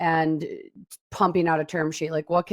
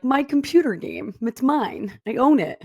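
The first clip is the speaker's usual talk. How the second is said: lightly voiced mom, higher pitch; a higher, mildly mock-possessive mom voice; imitating mom; 6 semitones higher than usual. Woman imitating her mom staking a claim, lightly put-on voice. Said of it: "my mom will be like".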